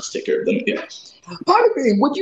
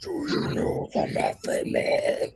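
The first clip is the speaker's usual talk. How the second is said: whispered line; whispering; 3 semitones higher, 9 dB quieter than usual. Acted. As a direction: whisper it eerily.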